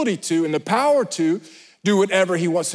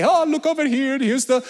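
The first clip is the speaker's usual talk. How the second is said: Jenga. Retold or imitated. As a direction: imitate an upbeat guide showing off the wildlife. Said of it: "he would just talk like that".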